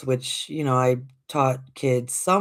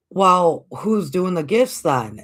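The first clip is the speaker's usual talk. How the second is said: loud, higher demand; indignant child; 4 semitones higher, 4 dB louder, slower than usual. Retold or imitated. Little girl confronting her mother, loud and indignant. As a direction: challenge her like a stubborn kid.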